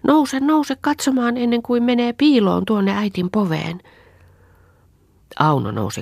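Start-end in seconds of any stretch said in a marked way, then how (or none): 0.1-3.8 tugging at her aunt, begging her to hurry; eager little girl. Acted. Anni pulls at Auno's skirt, pleading, high and eager. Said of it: "Anni repi Aunoa hameesta".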